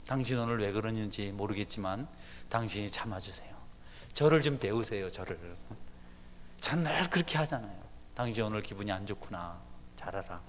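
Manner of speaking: a hint of soft, patient husband; gentle to wife. Husband soothing his upset wife, soft and patient. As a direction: say it quietly to calm her down.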